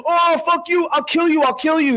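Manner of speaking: high-pitched imitated angry yelling; mock furious threat. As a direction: act out a fighter losing it, voice pitched well up. Acting out fighter's threat.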